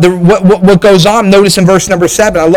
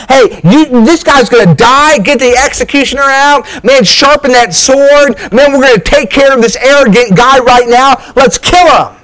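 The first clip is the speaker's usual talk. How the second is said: raised, hammering death sentence; a king ordering an execution, higher and harsh; harsh verdict; 5 semitones higher than usual. Acted. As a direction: bring the hammer down on him. Preacher acts out David's harsh verdict.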